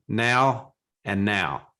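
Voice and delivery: "now" drawn out in Philadelphia accent, twice nearly alike; South Jersey Philadelphia accent. Shown as a demonstration. Guest tests host with two words, slow Philadelphia accent on "now". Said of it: "I'll try to get the accent right".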